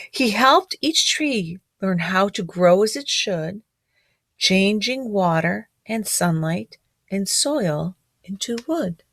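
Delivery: storybook read-aloud, gently rhythmic; reading to children. A narrator's reading. Teacher reading a picture book rhyme to children.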